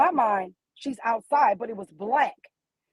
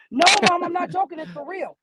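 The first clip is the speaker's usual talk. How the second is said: higher pitched, pleading daughter insisting it's real; urgent daughter; 7 semitones higher than usual. Retold or imitated.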